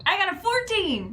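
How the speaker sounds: loud, high triumphant announcement; excited triumph. Real, not acted. Player celebrating a lucky re-roll, excited shout. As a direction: crow about the winning roll.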